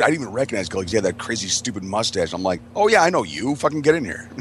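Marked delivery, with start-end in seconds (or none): 2.8-4.3 excited greeting. Retold or imitated. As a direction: greet him with a big happy shout. Greeting friend at the door.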